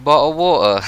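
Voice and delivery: clipped British "Bottle of water", the t swallowed; British accent. Shown as a demonstration. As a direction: drop the t in "water" British style. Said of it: "a very British thing to say".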